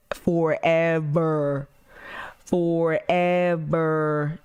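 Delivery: stretched out very slowly, a light Sandlot quote; Sandlot forever. Retold or imitated. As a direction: drag out forever like the Sandlot kid. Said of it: "Y'all ever watch Sandlot?".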